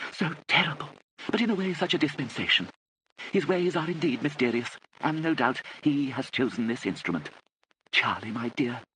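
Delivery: put-on high-pitched elderly lady's voice, emotional; fluttery pious aunt. Aunt Kit greets her troubled relatives, fluttery and pious. Narrator voices Lady Catherine.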